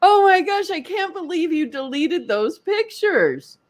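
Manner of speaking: high-pitched retold exasperation; mad. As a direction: re-enact indignant disbelief. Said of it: "I was so mad at him".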